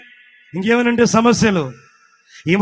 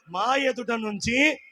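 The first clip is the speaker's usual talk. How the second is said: building to a shout; 2 semitones higher, 6 dB louder, slower than usual. Acted. (మెల్లగా మొదలై గట్టి అరుపుతో ముగించడం)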